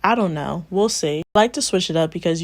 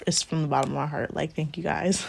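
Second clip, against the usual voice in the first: softer, choked-up thanks; getting emotional; 6 dB quieter than usual. Real, not acted. Vlogger thanking her viewers near three K, softly emotional. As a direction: let the thanks catch in your throat. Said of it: "I'm getting emotional".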